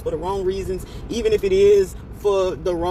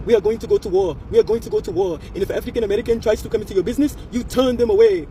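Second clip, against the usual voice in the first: imitated African woman; 2 semitones higher than usual. Lady in a video declaring war, imitated African accent. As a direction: declare it firmly in a lightly put-on African accent. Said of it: "I saw one, the lady was saying".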